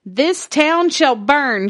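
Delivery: slow, dramatic cry of This town shall burn; slow ominous shout. Retold or imitated. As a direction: draw it out like a curse. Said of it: "shouted Wilmot Redd".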